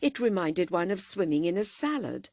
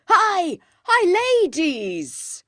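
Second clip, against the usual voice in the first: calling out; 11 semitones higher, 8 dB louder, slower than usual. A narrator's reading. Beebe calling out warning.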